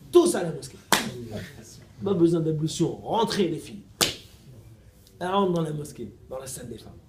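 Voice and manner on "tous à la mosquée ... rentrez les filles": loud rallying call to the crowd; louder, commanding call. Retold or imitated. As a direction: summon everyone into the mosque. Calling everyone to the mosque.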